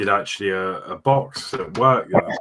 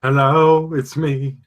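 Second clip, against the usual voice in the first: louder, higher hello as on a bad line; calling into phone; 5 semitones higher, 3 dB louder, much slower than usual. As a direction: call out like the line dropped. Answers the hello joke.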